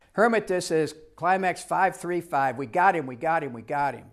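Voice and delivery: thrilled report over the radio; excited radio call. Retold or imitated. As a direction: call it in like you just found him. Helicopter radio call reporting rescue.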